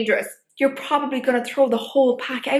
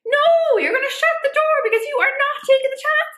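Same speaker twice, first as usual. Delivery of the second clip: emphatic no; 11 semitones higher than usual. Real, not acted. Insisting on shutting the door.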